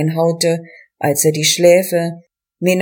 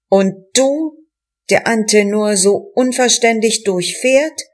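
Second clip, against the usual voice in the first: raised, higher voice, yelling back from the ice; shouted; 3 semitones higher than usual. Acted. Damned sinner shouting at the poet from the ice. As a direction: hurl it back at him, pitched up. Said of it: "schrie er".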